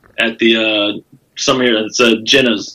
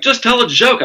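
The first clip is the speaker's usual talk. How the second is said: higher-pitched mock heckle; imitated heckler; 9 semitones higher than usual. Audience member to stalled comedian, imitated heckle. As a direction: call it out high, imitating an impatient punter.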